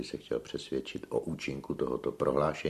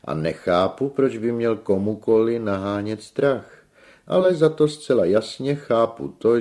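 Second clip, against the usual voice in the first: high loud flourish settling down; theatrical self-regard; vain tenor, indignant; 3 semitones higher, 8 dB louder than usual. A narrator's reading. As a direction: project like an opera star, then subside.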